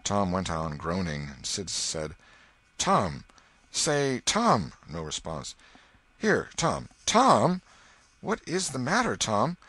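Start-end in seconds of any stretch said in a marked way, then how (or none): 2.8-4.7 higher-pitched, insistent calls; calling out. A narrator's reading. Sid trying to get groaning Tom to answer, calling out. 6.2-9.6 high, rising worried calls; anxious. A narrator's reading. Sid shaking his moaning brother, anxious. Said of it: "looked in his face anxiously".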